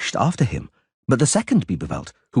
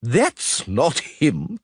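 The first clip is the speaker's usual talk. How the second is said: bellowed; 5 semitones higher, much slower than usual. A narrator's reading. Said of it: "the individual in the toga bellowed".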